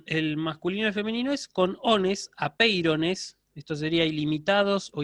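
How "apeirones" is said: apeirones spelled out very slowly, syllable by syllable; slow classroom model of apeirones; slow demo word. Shown as a demonstration. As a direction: drag out apeirones for students to copy. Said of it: "el nominativo plural".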